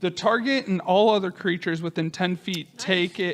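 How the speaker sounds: ordinary delivery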